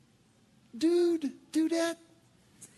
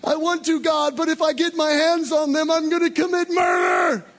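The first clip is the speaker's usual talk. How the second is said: louder, hammed-up rage; mock furious inner voice; 4 semitones higher, 6 dB louder than usual. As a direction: grit out the inner frustration. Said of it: "inside you're going".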